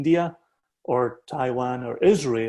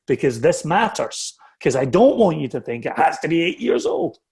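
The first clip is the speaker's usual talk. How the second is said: a touch more intense and raised, pressing the point; mild real intensity, louder and higher; a bit intense; 3 semitones higher, 3 dB louder than usual. Real, not acted. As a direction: lean in because it matters. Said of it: "I'm gonna get a little bit intense".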